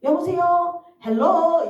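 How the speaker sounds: high, loud sing-song hello; high-toned phone greeting. Shown as a demonstration. Answering calls from pastor or mom, in a high tone. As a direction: pitch it right up and lilt the greeting. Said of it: "무조건 높은 톤으로 제가 받거든요".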